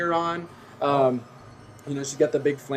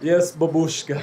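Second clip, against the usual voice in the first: strong man; slower than usual. Acted. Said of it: "he'll go by the tiger and go".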